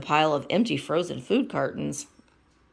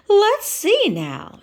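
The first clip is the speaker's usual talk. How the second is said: Miss Piggy voice; 8 dB louder, much slower than usual. Acted.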